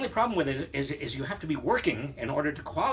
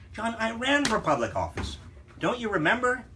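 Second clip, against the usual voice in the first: higher-pitched, playful protest; exasperated reminder, pitched well up; mock indignation; 8 semitones higher than usual. Real, not acted. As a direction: protest in a high, incredulous voice. Mock affront at being forgotten.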